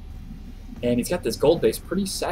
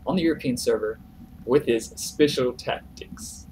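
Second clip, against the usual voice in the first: mock Russian accent, deliberately bad. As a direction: ham up a terrible Russian accent for the win call. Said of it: "That's a horrible Russian accent".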